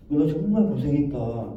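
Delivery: slow, gentle words of recognition; acknowledging. Shown as a demonstration. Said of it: "인정해주는 말이에요". (천천히 다정하게 인정해 주듯)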